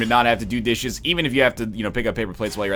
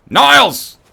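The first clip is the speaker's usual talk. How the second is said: too-forceful, high shouted "Niles"; Frasier Crane; 13 semitones higher, 11 dB louder than usual. Acted. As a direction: belt out "Niles" high and very loud. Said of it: "Too forceful".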